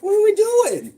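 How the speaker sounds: high, loud exasperated shout. Real, not acted. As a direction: yell it in playful disbelief. Exasperated shout during filming.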